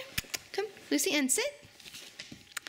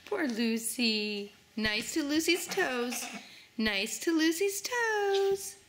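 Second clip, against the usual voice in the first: gentle slow coax; slower than usual. Real, not acted. Gentle coaxing baby.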